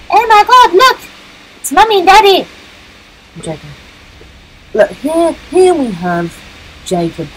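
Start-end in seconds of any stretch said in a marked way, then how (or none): 0.1-2.5 much higher, loud fake delight; mock excitement. Gamer faking joy at monsters, mock excited. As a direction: gush like seeing family.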